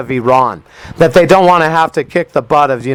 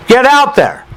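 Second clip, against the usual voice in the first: rallying shout; 10 semitones higher than usual. Real, not acted. Rallying Confederates to rise.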